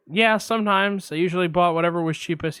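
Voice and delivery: receptionist. Retold or imitated. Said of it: "I'm gonna play both parts".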